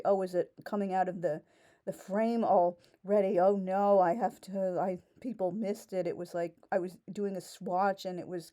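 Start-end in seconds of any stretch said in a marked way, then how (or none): 0.0-6.1 mock worried. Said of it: "I won't need to worry".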